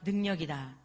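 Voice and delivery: loud, slow first word, then dropping; booming pulpit refrain for the congregation to echo; call to repeat. Shown as a demonstration. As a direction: lead the congregation in a repeat-after-me line. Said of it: "따라하십시오".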